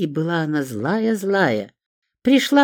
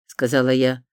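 usual speaking voice

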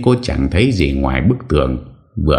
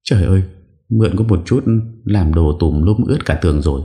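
put-on higher young maid's exclamation, scolding; higher scolding young woman; exclaiming in dismay; 5 semitones higher than usual. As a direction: cry out at the mess, higher. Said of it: "Lệ la lên".

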